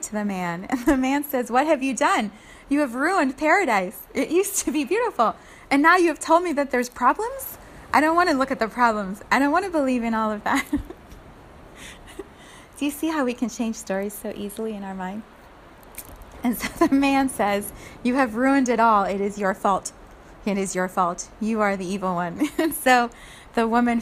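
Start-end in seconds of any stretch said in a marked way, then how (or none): 1.5-10.6 louder, higher, upset accusation; angry man. Acted. Man accuses the woman of ruining paradise, angry and loud. 18.0-22.5 blaming man. Acted. Man blames the woman.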